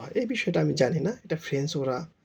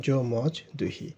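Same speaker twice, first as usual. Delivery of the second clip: slow model sentence. Shown as a demonstration. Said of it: "আমি খাই".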